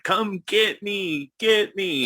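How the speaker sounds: mock yell. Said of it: "he's just yelling".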